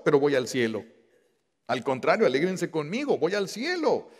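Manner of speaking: high, loud plea of Christ on the way to the cross; Christ speaking. Acted. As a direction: lift the voice, urging them not to weep. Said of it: "dice Jesús". (Cristo alzando la voz a las mujeres que lloran)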